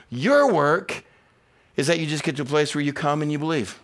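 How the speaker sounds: ordinary talk, nothing marked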